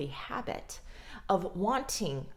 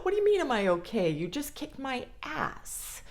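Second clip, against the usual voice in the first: incredulous sibling; 6 semitones higher than usual. Retold or imitated. Voicing hurt sibling's retort.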